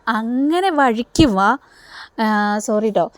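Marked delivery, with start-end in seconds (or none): 0.1-1.6 slow, drawn-out taunt; sarcastic slow come-around; mocking drawl. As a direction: stretch it out to needle her. Chandra taunting Varsha in retold scene.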